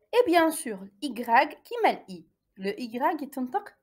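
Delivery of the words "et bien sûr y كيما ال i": ordinary talk, nothing marked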